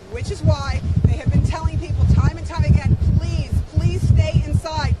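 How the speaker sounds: shouting over roaring wind; yelling over hurricane winds. Real, not acted. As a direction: raise your voice over the storm.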